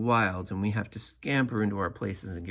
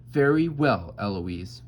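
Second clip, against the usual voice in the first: stern; 5 dB louder, slower than usual. Retold or imitated. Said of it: "he stands up and says".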